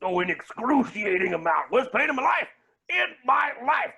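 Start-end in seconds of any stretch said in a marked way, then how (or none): 1.7-3.9 hammed-up pain cry. Exaggerated pain lament.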